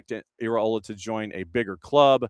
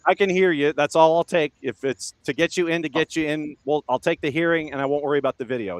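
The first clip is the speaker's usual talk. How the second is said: chipmunk voice; 4 semitones higher, 3 dB louder than usual. Real, not acted. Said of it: "You sound like a chipmunk".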